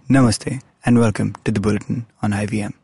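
formal anchor read; newscaster voice. Shown as a demonstration. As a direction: nineties Doordarshan news intro. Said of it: "I was going for, like, a newscaster voice".

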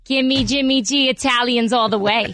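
put-on New Jersey mom accent. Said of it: "This is exactly how she sounds".

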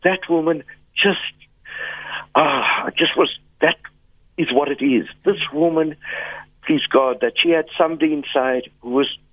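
holding back tears, words breaking off; choked up. Real, not acted. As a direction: voice catching with emotion. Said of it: "I'm getting emotional right now".

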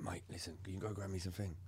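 hushed, sneaky plea to a mate; hushed request. Retold or imitated. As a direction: keep it down so nobody hears you asking. Secretly asking for drugs.

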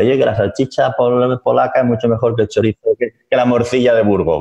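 a light send-up of a Polish guy bragging about his sausage; a hint of a proud foreigner; mock Polish boaster. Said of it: "viene un polaco y dice".

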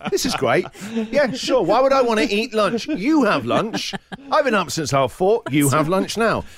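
sarcastic. Retold or imitated. Sarcastic rant at teenage daughter.

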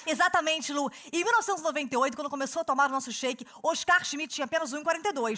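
infomercial. Acted. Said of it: "cheirinho de merchan".

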